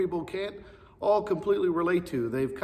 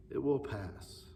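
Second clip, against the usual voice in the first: softer repeat of "It will pass"; softer echo; 6 dB quieter, slower than usual. Shown as a demonstration. Pastor comforting children, a soft falling echo. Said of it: "because this too shall pass".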